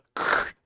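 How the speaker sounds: short voiceless burst; signature opening noise. Shown as a demonstration. Streamer shows the noise that signifies the stream start, short and voiceless. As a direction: make a brief rasping noise, no voice. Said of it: "I did the".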